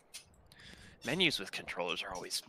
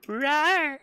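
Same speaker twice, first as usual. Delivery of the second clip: very high, louder playful roar; retried rawr; 7 dB louder than usual. Pretend. Streamer retrying the rawr on request, high and loud. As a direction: give the roar another go. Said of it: "let me try it again".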